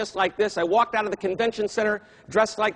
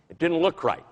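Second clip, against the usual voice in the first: usual speaking voice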